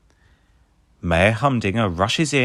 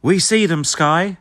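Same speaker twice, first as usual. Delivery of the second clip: Ryder voice; 8 semitones higher, 4 dB louder than usual. A narrator's reading. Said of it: "says Ryder".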